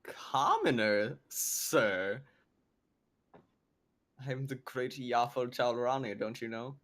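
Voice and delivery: slow, mock-affronted grandee; haughty adventurer. Adventurer answering a captive's insult, slow mock haughtiness. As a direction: draw it out with mock self-importance.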